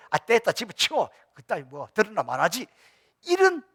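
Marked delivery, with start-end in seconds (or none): 0.1-2.7 dismissive snap. Retold or imitated. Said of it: "꼰대가 되면 안 된다니까".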